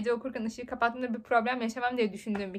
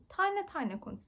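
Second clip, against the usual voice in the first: higher, mock-stern teacher telling her to slow down; imitating teacher; 7 semitones higher, 4 dB quieter, slower than usual. Student retells teachers scolding her fast speech, higher mock voice. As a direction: parrot the teachers, lightly. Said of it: "Diyorlar ki".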